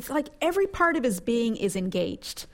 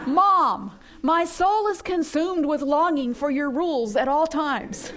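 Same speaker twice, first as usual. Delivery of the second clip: laughing mock teenage voice, louder; mock teenager; 4 semitones higher, 5 dB louder than usual. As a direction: pretend teen telling mom, half laughing, louder. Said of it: "one of your teenagers saying that to you".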